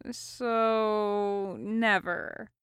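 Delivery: a sulky little complaint; whine. A narrator's reading. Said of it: "said with a whine".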